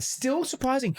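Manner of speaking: high, drawn-out spooky echo. Pretend. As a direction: echo it back like a ghost.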